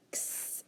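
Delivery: "X" as a hissed "ks" with no vowel; letter sound X. Shown as a demonstration. Teacher quizzing pupils on spelling sounds, isolated letter sound. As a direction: pronounce "X" as its sound, kss. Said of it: "X sound".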